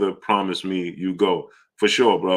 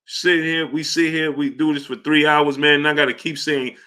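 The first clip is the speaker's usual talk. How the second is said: high-pitched begging; 8 semitones higher than usual. Real, not acted. Pleading with viewers for likes.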